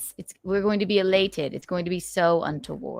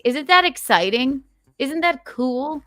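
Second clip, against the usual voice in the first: hyped; 8 semitones higher, 6 dB louder than usual. Acted. Hyped questions.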